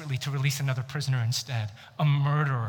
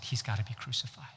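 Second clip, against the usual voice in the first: ominous fast whisper; 4 semitones lower, 9 dB quieter, faster than usual. Acted. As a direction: whisper it like a dark secret. Ominous aside about the crucifixion.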